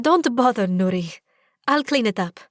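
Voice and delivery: suppressed giggle. Acted. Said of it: "suppressing another giggle".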